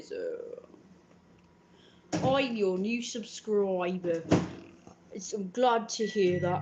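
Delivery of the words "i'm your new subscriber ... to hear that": a lightly put-on silly voice, slow. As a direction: read the comment in a mild goofy voice. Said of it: "I'm just doing a silly voice".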